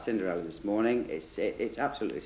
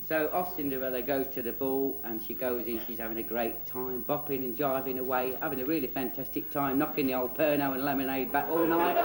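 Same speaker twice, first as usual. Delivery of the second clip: rolling tongue-in-cheek narration; children's storyteller. Acted. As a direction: reel it off like a cheeky fairy tale.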